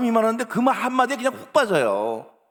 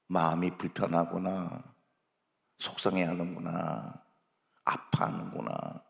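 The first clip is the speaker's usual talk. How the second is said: low, hushed, soothing empathy; gentle acknowledging; 13 semitones lower, 8 dB quieter than usual. Acted. Parent acknowledging a child's upset feelings, gently and softly. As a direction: softly let the child know you understand. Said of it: "그렇게 인정만 여러분 해주시면".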